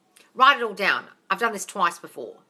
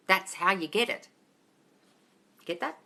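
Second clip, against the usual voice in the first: ordinary delivery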